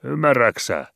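high, loud call upward; shouted up. A narrator's reading. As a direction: yell it up to the deck. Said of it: "huusi hän ylös lukkarille".

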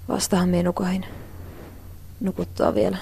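drowsy, barely voiced whisper; sleepy whisper. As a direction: mumble it half asleep. Half-asleep, woken by alarm. (unelias kuiskaus)

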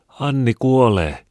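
high, slow, loud cry of alarm; boy shouting. A narrator's reading. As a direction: call out in panic that Anni is dying. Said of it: "hän huusi".

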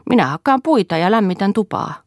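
put-on a young boy dreaming aloud; child's voice. A narrator's reading. Small son telling mother his plans, lightly childlike.

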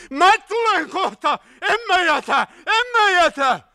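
high, loud urgent shout. A narrator's reading. Hietanen to the man left inside, shouting. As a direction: yell a promise back into the car. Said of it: "Hietanen pääsi peräovelle haavoittuneen kanssa ja huusi".

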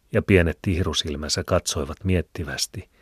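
usual speaking voice

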